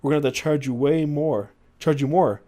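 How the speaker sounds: lightly acted British manager, insisting; British accent. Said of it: "As the British guy says".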